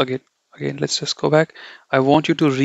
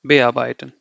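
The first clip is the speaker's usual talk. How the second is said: bearbeiten with be passed over lightly, stress on AR; unstressed be; 2 semitones lower than usual. Shown as a demonstration. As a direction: slip quickly off be into arbeiten. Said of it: "I'm not emphasizing the be".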